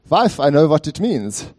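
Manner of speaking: a touch of a triumphant Eastern European husband; Eastern European accent. Retold or imitated. Husband proudly explaining RSVP to his wife, mock Eastern European accent. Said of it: "In his thick Eastern European accent".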